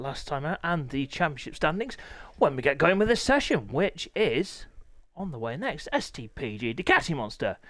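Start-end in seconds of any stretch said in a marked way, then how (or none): 5.9-7.6 voice breaking. Real, not acted. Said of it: "voice break".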